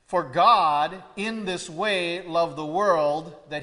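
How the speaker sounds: deliberate explanatory reading; stress on IN THIS WAY. Shown as a demonstration. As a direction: read it clearly, weighting "in this way". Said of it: "you can read it very clearly".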